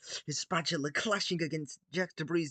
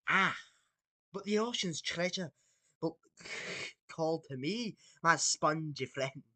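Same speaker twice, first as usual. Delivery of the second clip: Scottish-ish pirate. Acted. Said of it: "this is not a pirate accent".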